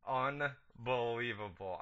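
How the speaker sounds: slow, drawn-out unbelievable; mock unbelievable. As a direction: stretch the word in mock disbelief. Echoing the sound drop.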